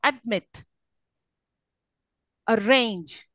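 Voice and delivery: "Admit", "Arrange" stressed on MIT and RANGE; Admit, Arrange, final syllables stressed; stress on last syllable. Shown as a demonstration. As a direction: lean on the ends of "Admit" and "Arrange". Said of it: "The last one".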